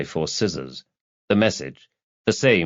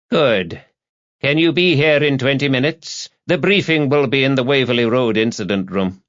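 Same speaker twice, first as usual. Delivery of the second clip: higher-pitched superior giving orders; officious chief inspector Anderson; 5 semitones higher, 3 dB louder than usual. Acted. Chief Inspector summoning Rebus to a briefing, officious. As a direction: issue instructions down the line, pitched up. Anderson's phone dialogue in story.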